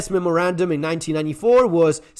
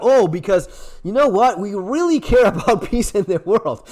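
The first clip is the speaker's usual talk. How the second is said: sarcastic quote that cracks into a laugh; mock the claim and lose it laughing; mocking, breaking into laughter; 2 semitones higher than usual. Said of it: "I cannot even say without laughing".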